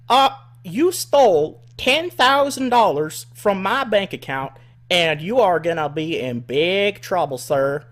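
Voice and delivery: high, loud accusing hick voice, slow start; imitating the redneck woman. Caller accusing him of stealing, high redneck voice. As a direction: drag out the accusation like an angry country lady. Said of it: "redneck woman".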